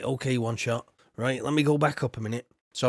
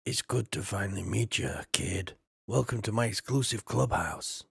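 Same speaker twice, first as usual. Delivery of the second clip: a lower, smooth clubhouse host; 4 semitones lower, 3 dB quieter than usual. Acted. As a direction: greet the kid like a smug club owner. Voicing game host character.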